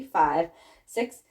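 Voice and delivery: steady teacher count-in before the music; dance count-in. Shown as a demonstration. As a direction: count them in on the beat.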